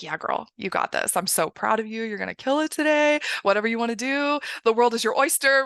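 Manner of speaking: put-on mildly hyped hype-girl voice; cheering self-talk. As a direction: cheer yourself on, building to the last line. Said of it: "How would you cheer yourself on".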